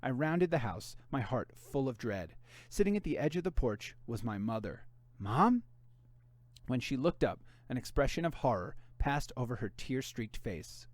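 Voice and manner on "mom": high, loud call of Mom; calling out in alarm, higher and louder; startled call. Acted. Finding mother crying on porch.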